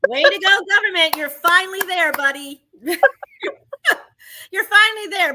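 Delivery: sarcastic praise. Real, not acted.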